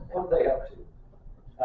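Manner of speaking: a slow secretive hush; hushed suspicious whisper. Retold or imitated. Preacher mimicking suspicious quiet folk, whispered slowly.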